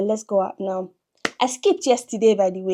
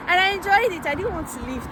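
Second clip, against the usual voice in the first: laughing; 10 semitones higher than usual. Real, not acted. Laughing about gym session.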